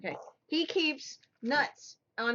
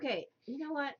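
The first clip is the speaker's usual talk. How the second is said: whisper; 3 semitones higher, 6 dB quieter, faster than usual. Real, not acted. Mock exasperated aside.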